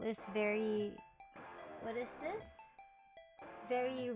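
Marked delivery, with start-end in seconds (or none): none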